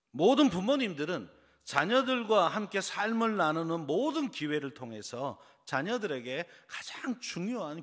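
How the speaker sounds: loud, high sermon delivery; emphatic preaching. Real, not acted. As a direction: drive the point home to the congregation. Preaches forcefully to congregation.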